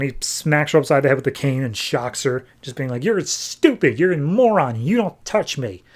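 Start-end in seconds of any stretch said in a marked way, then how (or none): 3.0-5.8 raised-pitch insults, slowing on the last warning; Riddler's angry scolding. Retold or imitated. Riddler shocks the woman who punched him, acted anger. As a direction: berate her in a mock tantrum.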